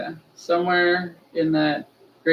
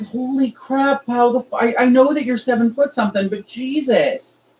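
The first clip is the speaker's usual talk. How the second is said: retold exasperation; 8 semitones higher, 4 dB louder than usual. Storyteller recalls scolding a seven-foot friend, exasperated. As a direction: recount your exasperated outburst, pitch raised.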